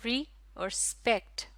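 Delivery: री, then स्पेक्ट, as two separate beats; split into syllables. Shown as a demonstration. Teacher showing two syllables in respect, clearly separated. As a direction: set री apart from स्पेक्ट. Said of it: "इसमें है दो syllable".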